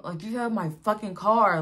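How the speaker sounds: mildly heated replay of the complaint; retold anger. Stranded mother recalling her partner took the car, mildly acted anger. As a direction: vent it with some force. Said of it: "angry 'cause it's just like".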